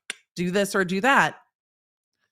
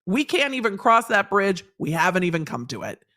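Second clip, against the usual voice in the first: exasperated judge; 2 semitones higher, 3 dB louder than usual. Retold or imitated. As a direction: scold the lawyer like a fed-up judge. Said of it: "The court's just sitting there being like".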